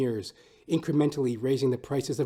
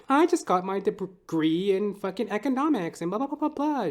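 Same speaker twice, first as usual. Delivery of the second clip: mock girl voice; 9 semitones higher, 4 dB louder than usual. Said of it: "this girl, she's like".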